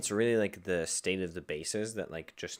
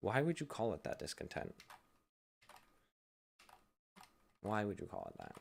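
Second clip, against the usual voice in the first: crestfallen, puzzled, disappointed, let-down tone; 9 dB quieter than usual. Explaining synth settings and questioning a feature's name, disappointed. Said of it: "I don't know why I sound so disappointed".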